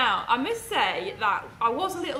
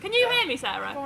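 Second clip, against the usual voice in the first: high, projected question to back; calling out; 5 semitones higher than usual. Real, not acted. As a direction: call to the back of the room. Checking if audible without mic.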